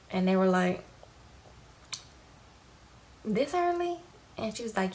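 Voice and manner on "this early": mock surprise. Family surprised she's coming home.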